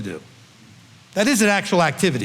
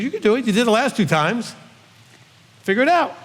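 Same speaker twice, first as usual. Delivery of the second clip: encouraging; 6 semitones higher than usual. Retold or imitated. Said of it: "I encouraged him".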